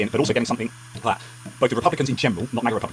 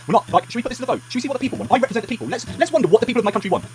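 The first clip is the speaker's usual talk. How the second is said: sarcastic; 11 semitones higher than usual. Pretend. Sarcastic mock questions, high pitch.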